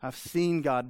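a mild touch of concern, plainly said; concerned believer. Retold or imitated. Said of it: "brings concern".

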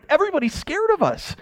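high, slightly hushed gloating; gleeful boast. Retold or imitated. Israel boasting to the nations, in a high gleeful voice. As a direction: crow about it in a high voice. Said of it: "They're like".

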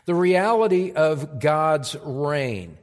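The reality of God's reign spoken slowly, each word weighted; deliberate, weighted announcement of the point; slow emphatic restatement. Shown as a demonstration. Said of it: "That's our first point".

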